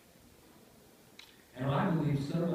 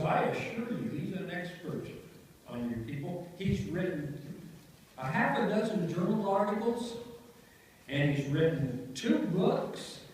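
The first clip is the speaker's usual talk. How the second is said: higher, louder salesman-like pitch for the expert; insistent lawyer; 6 semitones higher, 4 dB louder, slower than usual. Retold or imitated. Attorney pushes his hired expert on the council, loudly insistent. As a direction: press the case, emphatic and selling.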